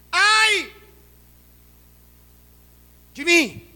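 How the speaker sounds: high, loud wail; anguished cry. Acted. Preacher voicing Isaiah before God's glory. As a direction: cry out undone before God. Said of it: "o ai dele foi".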